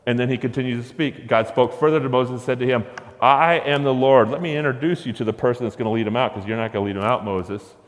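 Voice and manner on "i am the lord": louder, slow "I am the Lord"; booming proclamation. Acted. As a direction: proclaim it as God, slow and firm. Preacher voicing God declaring.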